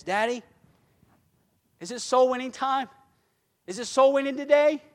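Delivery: put-on high-pitched, eager child's pleading questions; lightly voiced little girl pestering Daddy; imitated little daughter. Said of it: "she comes and she says".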